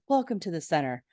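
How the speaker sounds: lightly voiced, understated welcome; a hint of a smooth host; Mister Mac. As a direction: imitate a leader's composed greeting, close to your own pitch. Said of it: "Mister Mac says".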